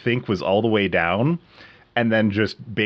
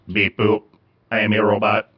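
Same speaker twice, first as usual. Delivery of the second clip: robot voice. Shown as a demonstration. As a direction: voice through a robot effect. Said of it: "the F X part means there's sound effects".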